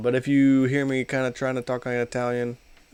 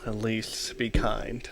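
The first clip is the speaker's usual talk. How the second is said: gentle; 2 semitones lower, 5 dB quieter, much slower than usual. Shown as a demonstration. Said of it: "Say it in a nice manner".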